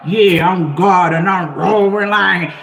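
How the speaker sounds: lightly voiced swaggering god; hint of a self-important deity, drawn out slowly; mock boastful god. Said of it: "everything else to say, "I'm God".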